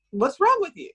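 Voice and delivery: high, loud, insistent repeat of the question. Retold or imitated. Therapist pressing a jaw pain patient, high loud repeat. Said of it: "and I said".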